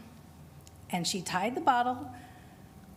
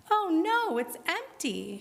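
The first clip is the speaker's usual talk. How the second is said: dismayed cry; 8 semitones higher than usual. A narrator's reading. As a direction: cry out in despair, then fade. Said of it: "she cried".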